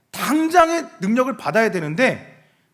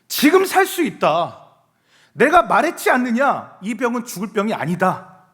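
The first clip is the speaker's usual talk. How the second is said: Jesus declaring; 3 semitones higher, 4 dB louder than usual. Acted. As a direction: proclaim it as Jesus with authority. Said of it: "예수님은 그러십니다". (예수님처럼 크고 단호하게 선포)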